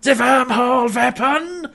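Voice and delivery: high, hammed-up German accent. The speaker unveiling the weapon to John, mock German accent. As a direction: announce it grandly in a bad Austrian German accent. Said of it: "like, Austrian German accent".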